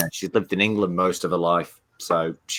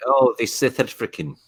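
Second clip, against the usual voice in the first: South African accent; 4 semitones higher than usual. Shown as a demonstration.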